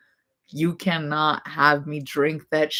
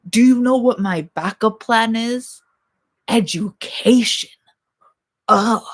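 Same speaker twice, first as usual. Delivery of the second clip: exasperated; 5 semitones higher, 6 dB louder than usual. Real, not acted. Mocking her own backup plan.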